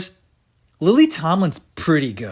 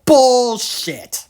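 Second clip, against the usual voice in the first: scoffing; 5 semitones higher than usual. Real, not acted. Calling out DeVito.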